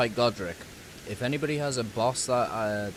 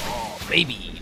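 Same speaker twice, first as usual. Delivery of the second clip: excited cheer; 4 dB louder, slower than usual. Real, not acted. Boss fight win, cheering.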